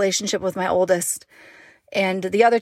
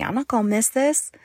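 exasperated thought; 3 semitones higher than usual. Retold or imitated. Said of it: "And I'm thinking".

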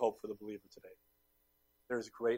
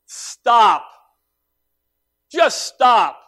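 much louder, higher stop and repent, slow; full-force preaching; 8 semitones higher, 12 dB louder, slower than usual. Acted. Pastor calling his congregation to stop and repent, loud preaching. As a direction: thunder the call to stop and come home.

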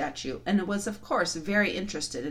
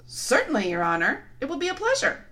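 dim giant cyclops; 7 semitones higher, 3 dB louder than usual. Acted. Giant replies.

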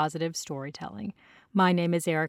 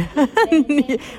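laugh; 8 semitones higher, 6 dB louder than usual. Real, not acted. Laughs at airport announcement.

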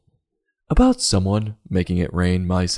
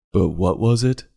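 normal talking voice

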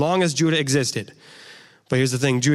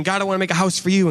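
quick, a touch higher, David pleading with God; eager David; 5 semitones higher, faster than usual. Retold or imitated. David eagerly offering God a house, a touch higher and quick. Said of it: "So David is saying".

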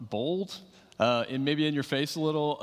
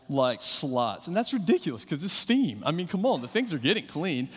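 imitating himself indignant. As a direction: protest about the dishwasher, half-playful. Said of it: "and I went".

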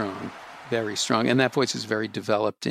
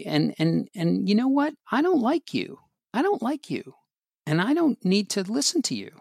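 higher, standing up to a bully; talking back to worry; 6 semitones higher than usual. Acted. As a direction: push back at Worry, growing firmer. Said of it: "I want you to be yourself".

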